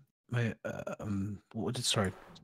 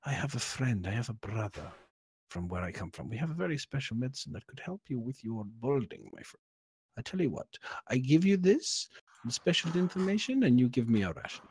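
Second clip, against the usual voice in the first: lightly voiced adventurer, pitch lifting for the offer; confidential bargaining; 3 semitones higher than usual. Adventurer offers balding shopkeeper a remedy for a ration, confidential bargaining. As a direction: lean in close and sell the secret. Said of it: "get very close to him and say".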